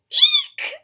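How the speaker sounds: piercing high, loud squeal; startled high-pitched eek; shriek. A narrator's reading. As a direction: shriek in storybook fright. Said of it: "shrieked the elephant".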